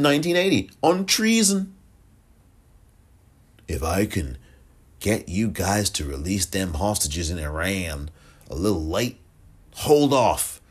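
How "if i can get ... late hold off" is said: loosely voiced politician making a shady deal; a poor, half-there impression of a president; Ronald Reagan. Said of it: "that's a terrible voice. That's not even how Reagan sounds".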